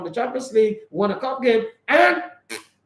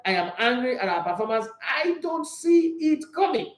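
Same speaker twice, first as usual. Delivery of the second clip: bad German accent; 3 semitones higher than usual. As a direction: drag the words out in a rough German impression. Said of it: "my German impression is very, very bad".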